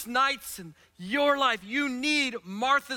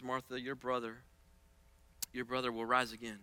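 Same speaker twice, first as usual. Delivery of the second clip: gentle Jesus voice; 11 semitones lower, 10 dB quieter, faster than usual. Acted. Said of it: "And he says".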